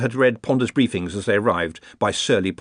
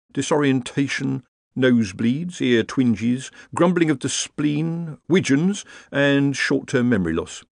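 higher, brisk, matter-of-fact wizard; breezy Rincewind; 3 semitones higher than usual. Acted. Rincewind listing symptoms to groaning wizards, breezy and higher. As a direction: rattle off the list like an old hand.

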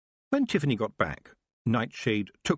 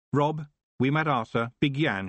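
louder, higher call across the barn; summoning the Feegles by name, raised voice; 5 semitones higher, 3 dB louder than usual. Acted. Tiffany calling the Feegles over.

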